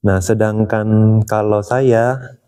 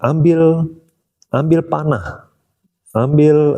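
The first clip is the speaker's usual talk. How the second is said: higher, mock-yelled commands; yelling orders; 6 semitones higher, slower than usual. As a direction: bark out the weapon orders in a retold yell. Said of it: "dia teriak-teriak begitu".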